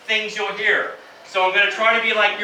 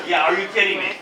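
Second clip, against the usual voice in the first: smiling delivery; faster than usual. Shown as a demonstration. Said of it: "And with a big smile".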